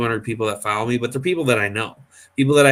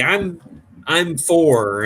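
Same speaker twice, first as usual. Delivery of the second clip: lightly voiced small child, higher pitch; excited little kid; 6 semitones higher, much slower than usual. Retelling a young boy telling Shannon his age, lightly voiced kid. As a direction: imitate a proud little kid. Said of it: "he was over there telling Shannon".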